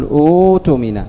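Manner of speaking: أوتمن said with a long u, the second hamza becoming waw; correct pronunciation. Shown as a demonstration. Teacher to students, modelling the right pronunciation. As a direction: say أوتمن as utumin. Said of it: "فتقول".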